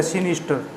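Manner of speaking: सिनिस्टर with the final R left silent. Shown as a demonstration. Teacher showing learners the silent R, demonstrating सिनिस्टर pronunciation. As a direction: say सिनिस्टर, letting the last R drop away. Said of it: "आर silent रहेगा".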